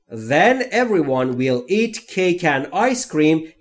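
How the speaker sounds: very slow, careful dictation read; each word spaced out and clear; slow model reading. Shown as a demonstration. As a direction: read it slowly for learners to copy. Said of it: "model sentence before translation".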